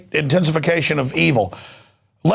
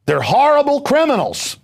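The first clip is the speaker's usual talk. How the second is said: higher, raised ranting shout; angry outburst; 10 semitones higher than usual. Real, not acted. Denouncing the criminals to the folks, a real angry shout. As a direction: blast it out in outrage.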